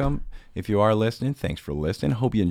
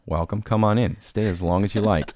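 intro greeting; 3 semitones higher, 3 dB louder than usual. Pretend. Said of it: "my semi-stolen intro".

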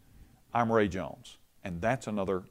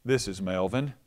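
calm. Retold or imitated. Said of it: "her dad calmly said".

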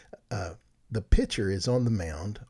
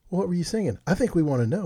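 egging him on; 8 semitones higher, 5 dB louder, faster than usual. Retold or imitated. Host eggs on shy guest.

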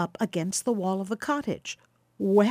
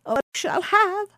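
put-on much higher, eager old woman; eager cry; 12 semitones higher, 4 dB louder than usual. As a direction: burst out eagerly to please the guests. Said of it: "cried Baucis".

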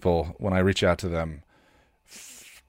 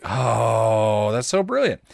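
gushing fan; 2 semitones higher, 3 dB louder, slower than usual. Retold or imitated. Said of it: "where it's like".

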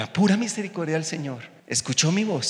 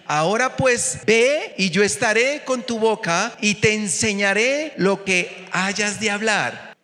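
proclaimed; 5 semitones higher, 3 dB louder than usual. Acted. Scripture proclaimed.

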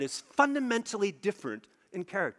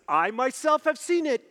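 voice of God; 6 semitones higher, 4 dB louder than usual. Acted. God confronting his people, higher and louder proclamation. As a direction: declare "I myself have seen it" as God, weighty. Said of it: "God says".

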